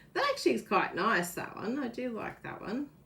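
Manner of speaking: audible surprise in the voice. Speaker looking over project samples, sounding surprised. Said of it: "Surprised. Can you hear it in my voice?".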